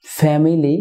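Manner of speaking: "ফ্যামিলি" in three full syllables, fe-mi-li; mispronounced family. Shown as a demonstration. Teacher showing viewers the common error, "ফ্যামিলি" mispronounced as fe-mi-li. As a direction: say "ফ্যামিলি" with the middle i sounded. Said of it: "ফ্যামিলি না হয়ে হবে".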